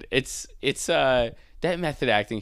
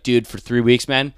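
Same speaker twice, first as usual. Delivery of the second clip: pompous actor; 6 dB louder than usual. Retold or imitated. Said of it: "I'd be like".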